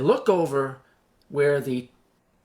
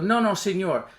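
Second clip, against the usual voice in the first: put-on higher, lightly accented broken English; 4 semitones higher, 3 dB louder than usual. Soldier corrects frightened passenger, in broken English. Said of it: "he talks in broken English".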